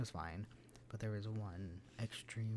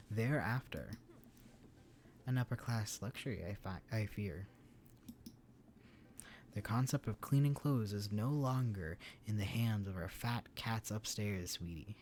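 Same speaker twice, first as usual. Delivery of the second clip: cheesy announcer voice. Acted. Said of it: "cheesiest announcer voice".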